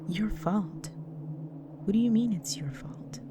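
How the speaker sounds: taken aback by a loved one's self-blame; dismayed disbelief. Acted. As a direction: question it in pained disbelief, pitch jumping up then falling. Disbelief at partner blaming self.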